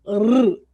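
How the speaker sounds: R as a rolled tongue-tip "rrr"; short trill on R; weak R sound. Shown as a demonstration. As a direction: roll the R, not the letter name. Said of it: "tem som de".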